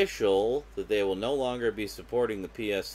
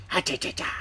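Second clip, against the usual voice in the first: too much caffeine; 5 semitones higher than usual. Real, not acted. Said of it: "I don't know why I did that".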